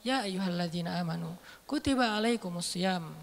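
soft, low, easy recitation; relaxed recitation. Shown as a demonstration. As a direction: recite it calmly, as if it came down gently. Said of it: "santai turunnya".

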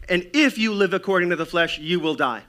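forceful preacher's quotation; emphatic warning. Acted. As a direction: drive the verse home. Proclaiming a quoted warning verse.

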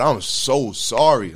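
slow, tearful apology, half reliving it; mild sobbing plea to God; retold crying. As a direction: drag the words out as if choking up. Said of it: "I'm crying my eyes out".

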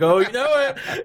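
high, loud, slow hyped agreement; hyped reply. Retold or imitated. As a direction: answer the crowd with glee. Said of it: "I was like".

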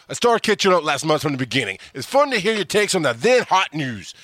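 badly faked New York accent; horrible New York accent. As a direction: put on a terrible New Yorker voice. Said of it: "my horrible New York accent".

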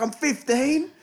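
put-on squeaky high teen; a lightly mocked fifteen-year-old; high kid voice. Teen gamer answers his age in a high squeaky kid voice.

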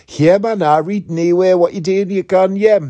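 loud, high-pitched northeastern English accent; broad northeastern accent. Shown as a demonstration. Podcaster showing the accent he used to have, broad northeastern English. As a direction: put on a thick northeastern accent, pitched right up. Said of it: "I don't have a northeastern accent like that anymore".

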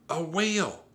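high, loud confirmation; excited. A narrator's reading. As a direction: insist on the thrilling sighting.

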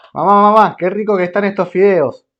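put-on high, loud whiny kid calling mom; a child gushing over the noodles; kid Jaimito. Kid shouting to mom about noodles, high and loud.

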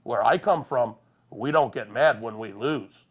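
put-on old bingo lady scolding a sore loser. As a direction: lecture him like a prim old woman. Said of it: "She goes".

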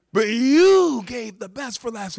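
loud, high, slow proclamation; booming praise. Retold or imitated. Master of the feast praises the groom, booming. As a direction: announce it to the whole feast.

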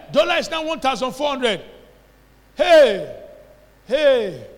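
lightly acted alarmed outcry; mock alarm. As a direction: exclaim in mock dismay at bad news. Voices natural man's alarmed reaction.

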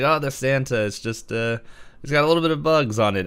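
high, quick, sheepish excuse; lightly voiced nervous inventor. Inventor voiced in retold scene.

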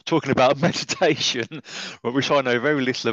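laughing at your own situation. Real, not acted. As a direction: talk through a real laugh and smile. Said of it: "this is why I'm laughing, I'm smiling".

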